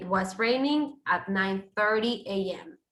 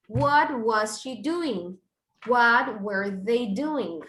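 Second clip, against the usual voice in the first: slow example questions; slower than usual. Shown as a demonstration. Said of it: "Verb to be, subject, and the gerund".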